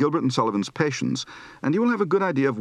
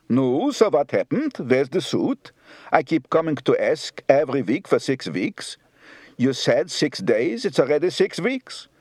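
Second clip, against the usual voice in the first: Jewish joke voices. Acted. Customer and tailor argue over a late suit, Yiddish accent. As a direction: tell it with a Yiddish-accented lilt. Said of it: "A classic Jewish joke".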